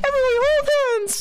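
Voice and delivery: high excited cry; excited shout. Acted. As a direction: call it out high and loud. Chaotic group call.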